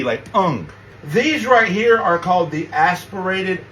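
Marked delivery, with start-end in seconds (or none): 0.0-0.7 ung with a nasal ng ending; final ng sound. Shown as a demonstration. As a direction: hum the ng at the end of ung. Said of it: "it would be N G".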